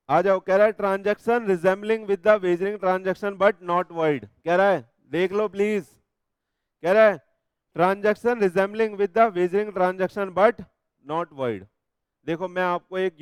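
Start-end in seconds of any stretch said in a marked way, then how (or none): 0.7-4.3 very slow, word by word, so students can copy it down; slow dictation reading. Shown as a demonstration. Teacher dictating the act text to the class, slowly. 7.8-11.7 very slow, word by word, so students can copy it down; slow dictation reading. Shown as a demonstration. Teacher dictating the act text to the class, slowly.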